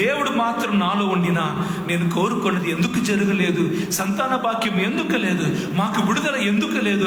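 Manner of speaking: Gideon's lament. Acted. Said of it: "Gideon అక్కడ ఏడుస్తున్నారు".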